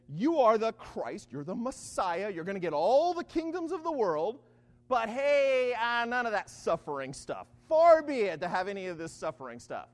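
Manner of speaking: loud bursts on key words, acting out the disciple; emphatic retold declaration. Disciple hails his master and objects to suffering, emphatic. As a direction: proclaim it boldly as an eager disciple. Acting Peter hailing then tempting Jesus.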